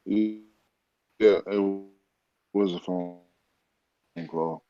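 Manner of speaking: choppy, glitching video call audio; call dropping out. Real, not acted. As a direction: voice breaking up over a bad connection. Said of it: "Right, in slow motion".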